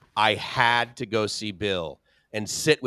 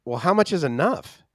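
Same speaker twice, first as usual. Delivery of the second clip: Gracie's question; 6 semitones higher, 4 dB louder than usual. Retold or imitated. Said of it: "most important question".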